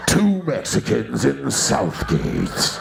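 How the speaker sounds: slow trailer-announcer read; movie trailer voice. Pretend. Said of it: "movie trailer voice guy".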